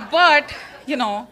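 slow words through a laugh. Real, not acted. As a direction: laugh while talking.

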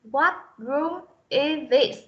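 IS THIS run together, final sound of IS joined to THIS; linked sounds. Shown as a demonstration. Teacher showing students how to link IS THIS, linked sounds. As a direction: link IS smoothly into THIS, slowly. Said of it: "cô đọc nối âm lại".

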